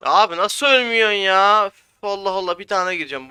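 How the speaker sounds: real frustrated outcry; exasperated shout. Real, not acted. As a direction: shout at the enemy who won't die. Enemy won't die in fight.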